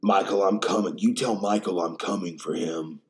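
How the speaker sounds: lightly voiced gruff heroine threat; mild mock of a tough action heroine; imitating Jamie Lee Curtis. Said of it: "why she's talking like that".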